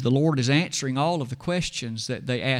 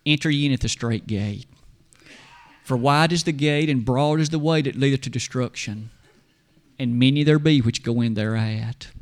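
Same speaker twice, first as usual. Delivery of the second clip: tender Jesus; 2 semitones lower, 3 dB louder than usual. Acted. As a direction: gently intone the verse, a touch weighty. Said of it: "Jesus tenderly looks at him and says".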